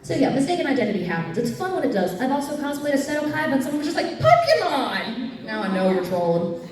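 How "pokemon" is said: high, drawn-out mock holler; heckler's shout. Someone yells at a Seto Kaiba cosplayer, drawn-out shout. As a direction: stretch the word into a higher, long cry.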